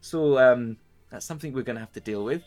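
a put-upon lady scolding her helpers; a lady laying out her troubles, half scolding; weary noble lady. Acted. The lady to the party, weary and scolding. GM holds lady NPC monologue.

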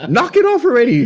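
high, loud mock-nagging mom; impatient mom. Mom telling her crying son to quit, high nagging. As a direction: nag him to quit crying. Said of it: "she's like".

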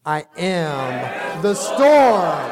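very slow, every word weighed; defiant declaration. Acted. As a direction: lay it down slowly like a vow. Defiant answer to the devil.

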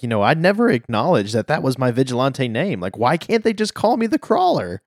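retold fluster, pitch leaping up in complaint; mock flustered. Vigilante complains about his name, mock flustered. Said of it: "he's really flustered".

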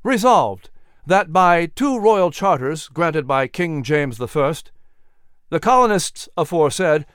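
firm, ringing formal reading; formal proclamation. Acted. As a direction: read out like a solemn decree. Reads resolution aloud.

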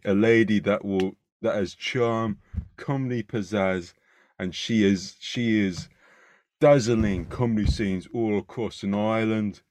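proper London Cockney patter; Cockney accent. Acted. Host welcomes a comedian to the podcast, Cockney accent. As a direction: introduce the guest in a Cockney accent. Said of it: "your accent is spot on".

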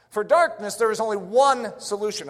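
emphasize the word "one"; stress on ONE. Real, not acted. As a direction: set "one" apart as the only answer. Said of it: "I want to emphasize the word one".

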